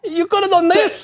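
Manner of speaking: high, hammed-up Chicano stoner voice; Cheech and Chong voice. Shown as a demonstration. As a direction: show him how it's done, hamming it up. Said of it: "you gotta talk like this".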